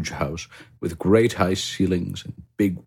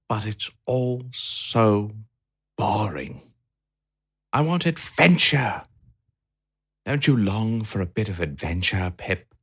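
Harry the hamster; 4 semitones higher than usual. A narrator's reading. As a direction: moan it like a bored little hamster. Harry longs for adventure.

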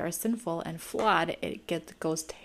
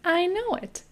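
quoted line; 12 semitones higher, 3 dB louder than usual. Retold or imitated. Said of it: "And the old woman says".

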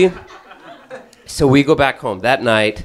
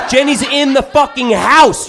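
higher again, laughing; laughing disbelief, pushed higher; 4 dB louder than usual. Retold or imitated. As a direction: repeat it more stunned and laughing. Repeats shocked, even higher.

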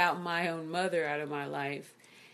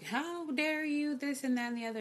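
imitating mother's outrage; 7 semitones higher, 3 dB quieter than usual. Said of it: "she's like".

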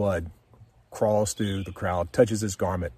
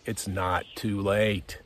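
slow, steady and sincere; calm, slow promise to the viewer; gentle encouragement; slower than usual. Real, not acted. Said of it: "let me encourage you".

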